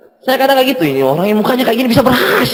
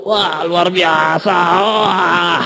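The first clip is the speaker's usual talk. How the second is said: awed exclamation; 5 semitones lower, much slower than usual. Retold or imitated. Uplines arriving, awe.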